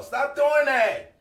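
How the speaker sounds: slow, drawn-out scolding. Real, not acted. Telling fake people to quit it, slow scold. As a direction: stretch it out like telling someone off.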